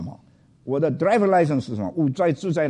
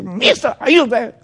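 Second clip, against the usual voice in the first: officer calling; 11 semitones higher, 8 dB louder, slower than usual. Retold or imitated. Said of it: "他一直".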